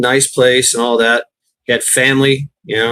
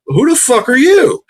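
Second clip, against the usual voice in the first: high, hammed-up yell of disbelief; imitating an outraged homeowner; 12 semitones higher, 3 dB louder than usual. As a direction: play the startled veteran confronting police at night.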